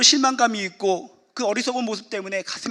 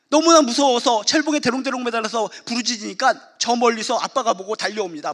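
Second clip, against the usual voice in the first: usual speaking voice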